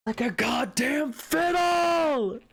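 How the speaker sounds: high, slow dramatic outburst; hammed-up indignant friend, drawn out at the end; quoting Maya. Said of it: "She's like".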